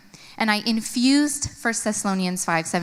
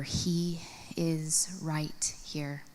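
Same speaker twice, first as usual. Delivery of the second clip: slow breathy whisper; 3 semitones lower, 9 dB quieter, much slower than usual. Real, not acted. Mom calming herself before the visit, whispered.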